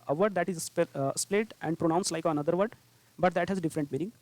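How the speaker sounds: a definition read word by word, very slowly; slow dictation. Shown as a demonstration. Teacher dictating the homophone definition, very slowly. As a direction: spell it out slowly so students can take it down.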